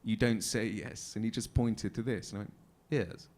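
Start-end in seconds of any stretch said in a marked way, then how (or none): 2.9-3.3 clipped-trick posh English "Yes". Shown as a demonstration. Actor showing a friend's trick, posh English yes. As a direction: say it in a really posh English accent. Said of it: "if you want to sound really, really posh".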